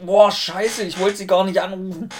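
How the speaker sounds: high, loud flustered apology. Retold or imitated. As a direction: caught off guard, blurting it out. Own flustered reply retold.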